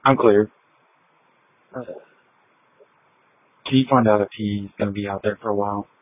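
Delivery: fast, tinny radio transmission; police radio. Real, not acted. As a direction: report in over the radio, quickly.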